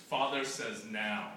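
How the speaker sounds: slow, low stern mother voice; a mother delivering a firm command. Acted. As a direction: lay down the father's order, slowly. Mother relays father's stern order.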